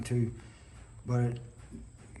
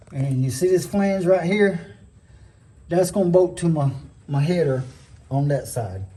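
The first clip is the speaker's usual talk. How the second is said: talking while lying under a truck; cramped under a car. Real, not acted. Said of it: "I'm under the truck".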